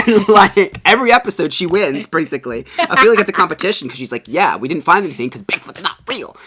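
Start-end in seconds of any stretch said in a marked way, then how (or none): 4.3-6.3 laughing mimicry. Mocking the smug skeptic.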